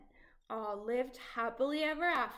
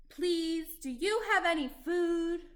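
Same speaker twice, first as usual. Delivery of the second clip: polite Jack; 5 semitones higher than usual. Acted. Small Jack asks giantess.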